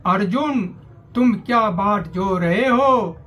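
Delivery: declaimed verse in measured phrases; declamatory Hindi poetry reading; rousing poem recitation. Acted. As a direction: recite it as a call to arms, line by line.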